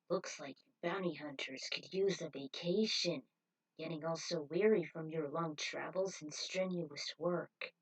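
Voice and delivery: a hint of a sly recruiter sizing them up; smooth cult leader.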